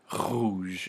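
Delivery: rouge with a slow voiced throaty French R. Shown as a demonstration. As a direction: say rouge with the R buzzing at the uvula. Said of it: "rouge is voiced".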